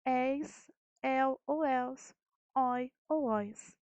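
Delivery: Eis, el, els, oi, ois with wide open vowels; deliberate Eis... el ou els... oi ou ois, vowels open; open diphthongs. Shown as a demonstration. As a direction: sound out each ending slowly, el and oi open. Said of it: "com pronúncias abertas".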